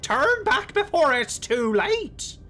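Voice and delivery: high, slow ghostly warning; a slow, high spectral warning; eerie warning voice. Acted. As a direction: warn them off, slow and high. Game character voiced in warning.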